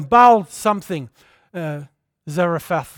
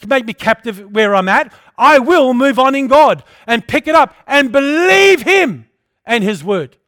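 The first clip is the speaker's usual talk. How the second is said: defiant declaration; 2 semitones higher, 6 dB louder than usual. Acted. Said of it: "and say".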